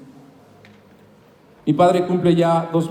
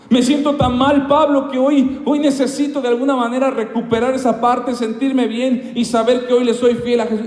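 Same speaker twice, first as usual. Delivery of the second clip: anguished plea; 6 semitones higher than usual. Acted. Pedro begging Pablo for a way back, anguished. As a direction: let the guilt break out.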